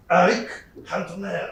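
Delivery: exaggerated French pronunciation of the name; French accent. Friend correcting him on a footballer's name, French accent. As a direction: say it like an over-the-top Frenchman. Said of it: "In France, they all say".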